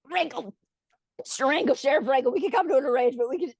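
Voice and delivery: lightly imitated choking plea; sputtering mayor, played lightly; mock choking. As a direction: bargain while pretending to choke on water. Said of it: "he's choking 'cause of all the water".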